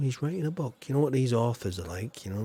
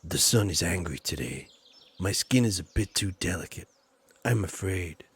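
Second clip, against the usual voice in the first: lightly voiced delicate poet, pitched lower; a hint of a fragile, troubled poet in a lower voice; Elliot voice; 5 semitones lower than usual. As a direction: read it as a lightly put-on low poet. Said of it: "let me just do my Elliot voice".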